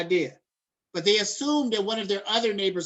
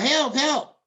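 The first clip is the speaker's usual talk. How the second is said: raised, louder mock cry for help; retold yelling for help; 6 semitones higher, 5 dB louder than usual. Victim calling to neighbors who stay indoors, imitated yell. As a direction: call out higher, imitating someone yelling for rescue. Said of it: "But they was yelling out".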